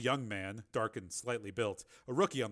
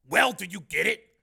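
higher, louder, anxious question; 7 semitones higher, 10 dB louder than usual. A narrator's reading. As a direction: press the technician anxiously for a result. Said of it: "anxiously said".

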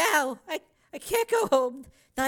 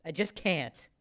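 much lower, softer, subdued; small apologetic voice; 10 semitones lower, 6 dB quieter than usual. A narrator's reading. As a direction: speak small and sorry.

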